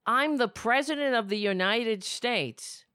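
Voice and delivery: lightly mocking a pompous president; a hint of a self-satisfied president; mock Trump. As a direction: puff the line up like a self-important boss. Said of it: "he says".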